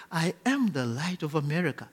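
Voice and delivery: put-on soft, calm childlike confession; calm, like little kids. Shown as a demonstration. Preacher leads congregation, soft and childlike. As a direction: say it gently like a trusting child. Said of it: "let's say this calmly, like little kids".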